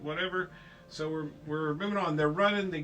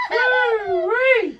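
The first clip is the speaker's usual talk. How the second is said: high, loud woo-wee; mock whoop; 14 dB louder than usual. Acting out the story's characters.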